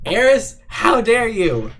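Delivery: high, loud, drawn-out scolding; mock outrage. Streamer scolds Eris for backing out of coasters, mock outraged. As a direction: exclaim it in playful indignation, stretching it out.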